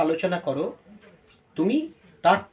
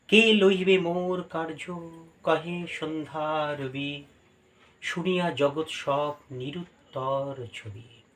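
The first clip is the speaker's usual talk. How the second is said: কবিতা আবৃত্তির ভঙ্গিতে ধীরে; poem recitation; slower than usual. Acted. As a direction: recite the poem gently and slowly.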